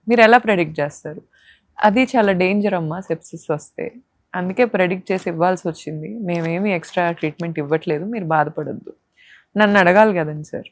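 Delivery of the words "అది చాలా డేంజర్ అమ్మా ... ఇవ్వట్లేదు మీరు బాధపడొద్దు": softer, gentle doctor consoling a patient; kind doctor soothing. Retold or imitated. Kind doctor calming a crying new mother, softly. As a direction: comfort her softly like a caring doctor. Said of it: "ఆ doctor చాలా మంచి వ్యక్తి".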